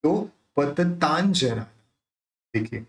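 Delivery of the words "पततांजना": slow पततांजना with N before ज; dot as N. Shown as a demonstration. Teacher showing the dot's sound, पततांजना with N. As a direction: sound a clear N inside पततांजना. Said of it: "उसका उच्चारण निकलेगा न".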